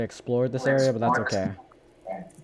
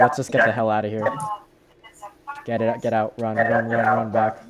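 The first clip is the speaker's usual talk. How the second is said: being chased; 5 dB louder than usual. Real, not acted. Fleeing mobs, urging retreat.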